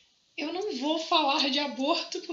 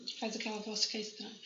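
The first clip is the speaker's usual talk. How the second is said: helium voice; 5 semitones lower, 10 dB quieter than usual. Real, not acted. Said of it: "Tá parecendo que eu inalei gás hélio".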